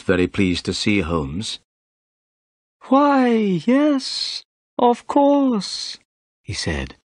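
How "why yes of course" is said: high-pitched, reluctant inspector's greeting; high character voice, grudging recognition; displeased police inspector. A narrator's reading.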